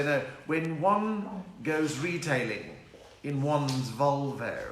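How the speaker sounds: slow, drawn-out imitation of the rich; rich person. Comic mocking rich Cape Town Volvo drivers, slow rich-person voice. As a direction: stretch each word like a mock rich person. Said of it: "But the rich people don't do that".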